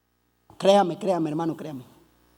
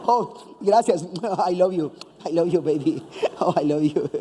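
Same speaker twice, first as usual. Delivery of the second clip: cool heartthrob; 7 semitones lower than usual. Retold or imitated. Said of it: "David salía al balcón y le decía".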